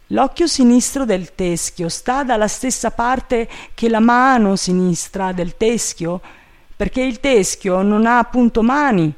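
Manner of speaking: high-pitched servant voice; loud, high questioning; puzzled servant Jupiter. A narrator's reading. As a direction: work it out naively aloud.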